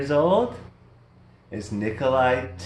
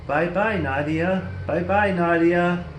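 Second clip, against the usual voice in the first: Snoopy voice; 5 semitones higher than usual. Acted. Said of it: "Snoopy says".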